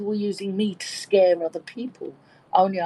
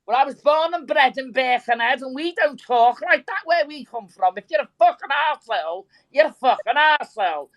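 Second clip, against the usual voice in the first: higher, broad Birkenhead Scouse; broad Scouse accent; 5 semitones higher, 3 dB louder than usual. Shown as a demonstration. Speaker shows listeners their real Birkenhead voice, broad Scouse. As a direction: slip into your real, thick Scouse accent. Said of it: "what my real voice was like".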